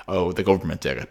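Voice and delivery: mildly deadpan imitation; dry reveal. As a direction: toss off the big reveal drily. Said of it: "something kind of drier".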